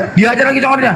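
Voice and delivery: ordinary delivery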